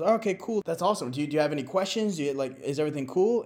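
quick casual barnyard host; rooster voice. Retold or imitated.

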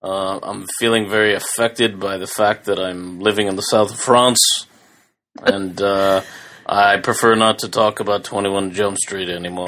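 put-on lightly slurred, drowsy drunk mumble; a hint of a sloppy drunk slurring; drunk Johnny Depp. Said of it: "You need to go watch a video".

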